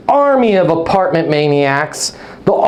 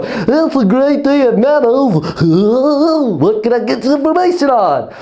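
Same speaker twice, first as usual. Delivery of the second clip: over-the-top cheerleader; 6 semitones higher than usual. Shown as a demonstration. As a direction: overdo the bubbly greeting till it's cringe. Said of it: "get up out of your chair and go".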